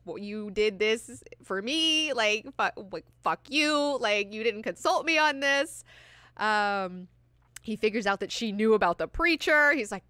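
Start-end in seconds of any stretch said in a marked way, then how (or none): 0.0-5.8 stammer, then drag out the complaint; mock outrage, building in pitch; annoyed. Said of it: "He's really annoyed about it".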